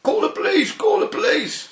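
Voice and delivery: high, loud alarmed yell at the receptionist; retold shouting. Solicitor yelling at his receptionist, high panicked shout. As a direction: mimic him bawling for the police. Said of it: "started shouting at the receptionist".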